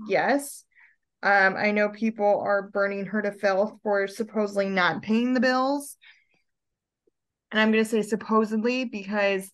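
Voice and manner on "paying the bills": whispered. Real, not acted. Aside about the accusation.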